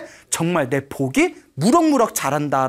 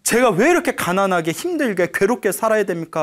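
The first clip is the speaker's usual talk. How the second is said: mild lament; 2 semitones higher than usual. Acted. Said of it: "하고 엉엉 울고 있으니까".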